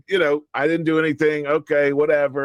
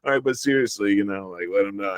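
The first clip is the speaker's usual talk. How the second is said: playing along. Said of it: "trying to play along a little bit".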